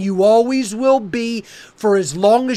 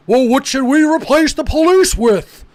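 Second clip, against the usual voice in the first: mocking silly questioner; 3 semitones higher than usual. Host mimics people who ask about replacing police, mockingly silly. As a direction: imitate someone asking a silly question. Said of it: "This is how silly and mentally ill".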